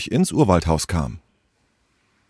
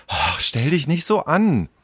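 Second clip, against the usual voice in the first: higher-pitched, impatient brush-off; 6 semitones higher, 3 dB quieter than usual. Acted. Tessa answers Henry's complaint about space, impatient. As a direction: wave off the objection impatiently. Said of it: "sagte Tessa ungeduldig".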